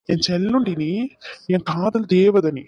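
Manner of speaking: slow and tender, savouring each word; tender, slow endearment. Acted. Husband tenderly soothing his tearful new wife, slow and loving. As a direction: coax her gently like a lover.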